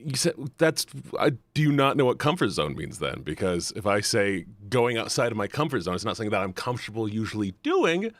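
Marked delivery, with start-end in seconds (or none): none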